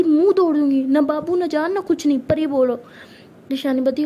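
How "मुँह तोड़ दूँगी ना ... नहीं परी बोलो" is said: angry. Acted. Pari angrily scolds Ishani.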